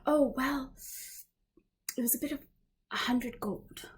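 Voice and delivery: lightly voiced, lighter and a little raspy; Galana's voice. Character names her price to the party, light raspy voice. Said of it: "a little bit lighter and".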